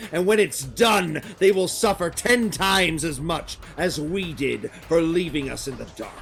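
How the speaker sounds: emphatic vow of revenge, falling away at phrase ends; vengeful slaver leader. Acted. Slaver vowing to tear down their shrines, vengeful. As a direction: swear vengeance like a bitter leader.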